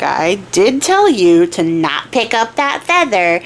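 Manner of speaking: slow, drawn-out I-told-you-so; mock chiding. Horse reminding the archer of its warning, slow mock chiding. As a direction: rub it in slowly, word by word.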